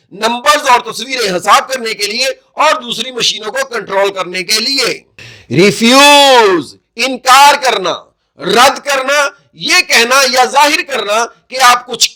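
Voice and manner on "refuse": ریفیوز drawn out slowly; teacher modelling ریفیوز; slow careful pronunciation. Shown as a demonstration. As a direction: model ریفیوز one sound at a time. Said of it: "اس کا تلفظ".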